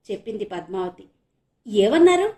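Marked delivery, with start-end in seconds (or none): 1.7-2.3 curious. Acted. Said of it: "కుతూహలంగా అన్నాడు".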